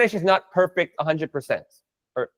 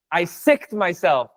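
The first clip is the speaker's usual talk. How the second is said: slow literal gloss; 2 semitones lower, slower than usual. Shown as a demonstration. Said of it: "I love it".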